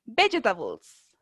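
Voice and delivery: Vegetables said slowly, stress on VEG, final e silent; slow it down so the class can copy Vegetables; slow model word. Shown as a demonstration. Teacher modelling the word for the class, slow and clear. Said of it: "vamos a repetirla varias veces".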